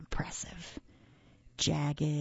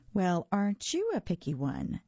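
sniffy; 3 semitones higher than usual. Acted. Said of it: "she sniffed".

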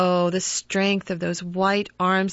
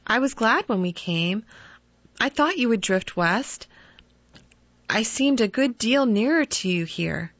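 gentle sadness; 3 semitones higher than usual. Acted. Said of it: "gentle, unobtrusive sadness in her tone".

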